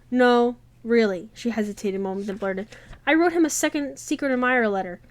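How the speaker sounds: reading a romance novel aloud, evenly paced; audiobook-style read; story narration. A narrator's reading. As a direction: tell the story to listeners, voicing the characters lightly.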